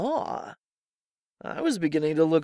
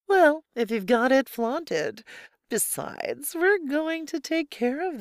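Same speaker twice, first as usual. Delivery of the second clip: laughing; 10 semitones higher than usual. Acted. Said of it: "laughed Laura".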